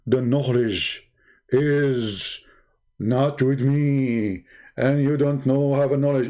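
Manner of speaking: mock stupid teacher. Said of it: "Imagine you ask the teacher a question, he says to you".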